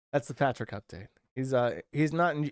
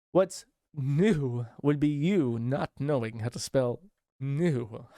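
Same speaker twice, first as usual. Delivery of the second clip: mock taunt; slower than usual. Mocking retort in put-on voice.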